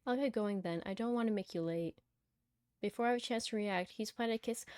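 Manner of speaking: measured first-person story reading; story narration. Acted. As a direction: read the story out evenly. Reads the game's story aloud.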